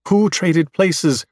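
slow, puzzled question; confused. Acted. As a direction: ask it slowly, baffled. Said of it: "Eve is confused".

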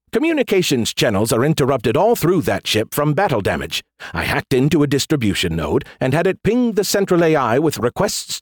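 smug AI in lively, swooping explanation; Skippy. Acted. AI explaining his hack to the general, smug. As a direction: show off the clever trick.

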